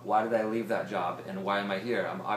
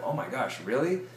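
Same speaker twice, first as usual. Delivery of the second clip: lit-up surprise; 4 semitones higher than usual. Retold or imitated. Waitress hearing about the friend's income, excitedly surprised. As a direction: pounce on the news with sudden interest. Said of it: "And then watch them light up".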